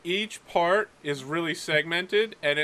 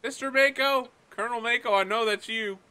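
higher voice, calling the bluff; knowing midshipman; 5 semitones higher than usual. Acted. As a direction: catch the colonel lying. Cadet unmasks the colonel.

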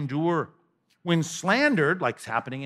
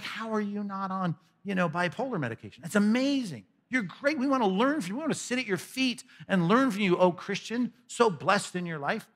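mock gushing, higher voice; starstruck, sing-song flattery; gushing admirer; 4 semitones higher than usual. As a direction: fawn over them in mock wonder.

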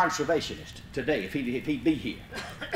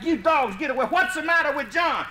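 shouting at the dogs; 9 semitones higher than usual. Retold or imitated. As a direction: shoo the dogs off while worried. Kicking dogs back, shouting.

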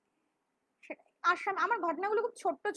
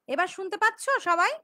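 raised voice; 2 semitones higher, 6 dB louder than usual. Real, not acted. Audio trouble, raising voice to listeners.

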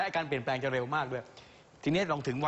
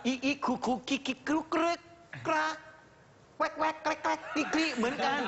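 higher, chattering mock giggle noises; imitated online giggles; 12 semitones higher than usual. Shown as a demonstration. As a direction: rattle off silly chat-room laugh sounds. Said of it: "เวลาพี่เล่น Facebook พี่ก็". (เสียงหัวเราะแบบในเฟซบุ๊ก เสียงสูงรัวๆ)

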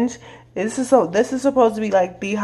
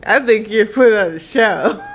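laughing. Real, not acted. Teasing friend during pepper challenge.

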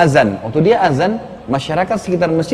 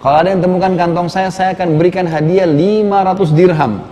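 higher, raised voice calling to a crowd; retold calling out; 4 semitones higher than usual. Old man calling to the people of Mecca, mild raised call. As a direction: call out to find your lost pouch, mildly. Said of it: "Teriak kepada penduduk Mekah".

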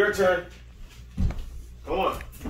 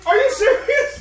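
surprised; 11 semitones higher than usual. Real, not acted. Shocked mother.

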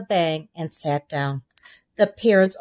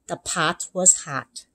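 slow practice read; 3 dB quieter, slower than usual. Acted. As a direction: read it carefully aloud. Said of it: "began to read".

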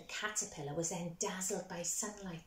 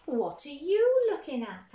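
louder, higher call; loud question; 6 semitones higher, 11 dB louder than usual. Acted. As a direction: call out sharply to them.

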